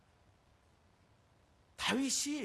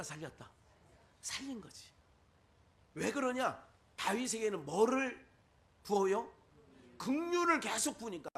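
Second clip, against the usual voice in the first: ordinary talk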